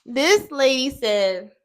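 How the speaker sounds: slow, weighty This lady said; slow emphatic. Real, not acted. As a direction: drag out each word for effect. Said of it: "and I quote".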